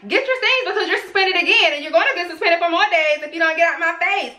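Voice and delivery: high-pitched, mock angry boss; retold yelling. Boss suspending worker in front of team, mock yelling. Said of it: "after he started yelling".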